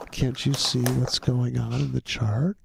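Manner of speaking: slow, insistent mock trader; slow Dieter imitation. Imitating Dieter pushing his chart on stream, slowly. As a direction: spell it out slowly, like he's sure. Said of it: "he was a slow".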